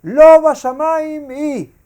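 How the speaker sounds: loud, high, slow proclamation toward the sky; declaring upward. Retold or imitated. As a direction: declare it slowly up to the heavens. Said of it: "mira para arriba y dice".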